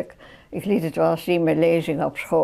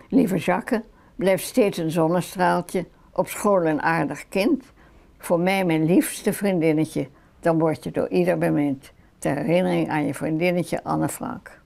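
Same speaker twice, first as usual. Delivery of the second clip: poem reading. Acted. Friend reading Anne's poem from her album, measured recital. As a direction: read it out line by line, unhurried.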